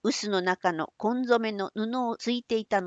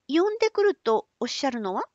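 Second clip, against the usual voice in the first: put-on young woman voice; 5 semitones higher, faster than usual. Otsu asks.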